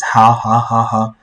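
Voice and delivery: repeated soft hao, hao; quick string of hao, hao; imitating phone hao. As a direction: mimic a Chinese caller agreeing. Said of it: "But here it just says".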